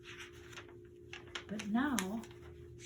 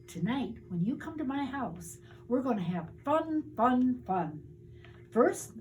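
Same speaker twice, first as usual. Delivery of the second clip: put-on eager boy; 3 semitones higher, 3 dB louder than usual. Reggie eagerly listing night plans.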